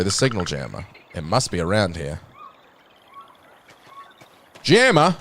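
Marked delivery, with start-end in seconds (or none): 4.6-5.1 high, loud puzzled yelp; baffled by the word; sudden loud bemused query; surprised question. Real, not acted. Puzzled echo of a game word.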